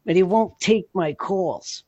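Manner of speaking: put-on high voice, stretching the key words; Freddie. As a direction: imitate an old-school pal griping about his calls. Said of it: "I'm gonna do Freddie voice".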